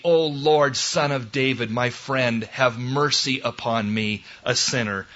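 subdued, humble plea; humble prayer. Acted. Preacher praying as a sinner for mercy, humble. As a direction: pray meekly, settling downward.

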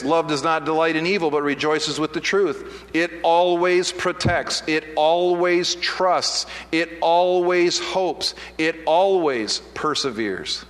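slow, measured Bible reading; scripture reading. Acted. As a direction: read each line deliberately, leaning on always. Reads scripture verse aloud.

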